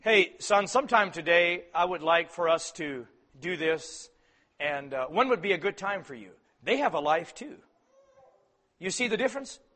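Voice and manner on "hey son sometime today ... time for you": gentle request. Retold or imitated.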